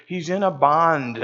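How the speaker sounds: slow, lightly attempted Scottish accent; poor Scottish accent. Older gentleman telling John about his grandson, poor Scottish accent. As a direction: draw it out in amateur Scottish. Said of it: "my Scottish accent is not good".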